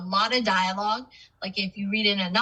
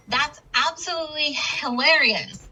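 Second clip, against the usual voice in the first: higher-pitched, emphatic HILARIOUS; emphatic exclamation; 7 semitones higher than usual. Shown as a demonstration. Teacher showing an exclamation mark to the class, emphatic. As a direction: land hard on HILARIOUS, pitched up. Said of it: "say something very loudly or with emphasis".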